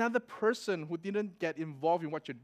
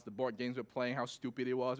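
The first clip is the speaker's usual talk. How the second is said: ordinary talk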